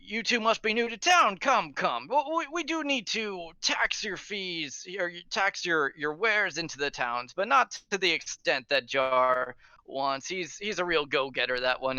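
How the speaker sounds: tipsy guard captain. Acted. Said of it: "he says".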